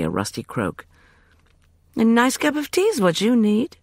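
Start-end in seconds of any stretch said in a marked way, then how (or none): 2.0-3.8 high, bright-toned offer of tea; cheerful Justin. A narrator's reading. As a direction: cheerily push the tea on her. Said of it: "Justin said cheerfully".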